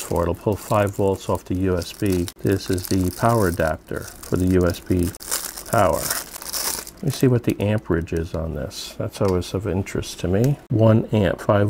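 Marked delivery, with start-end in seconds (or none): none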